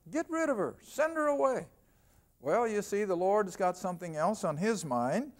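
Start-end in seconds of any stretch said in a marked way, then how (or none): 0.1-1.7 disciples urging. Acted. Disciples begging Jesus again.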